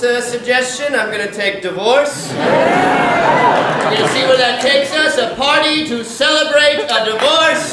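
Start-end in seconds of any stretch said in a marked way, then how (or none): 2.3-7.7 excited announcement. Real, not acted. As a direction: sell the theme to the crowd like a game-show host. Host announces the improv theme.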